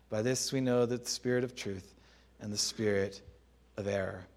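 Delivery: solemn Bible reading, rising on key lines; scripture reading. Acted. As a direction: read the verses as sacred text. Reads scripture passage aloud.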